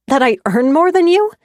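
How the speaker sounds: incredulous. A narrator's reading. Incredulous shout in quarrel.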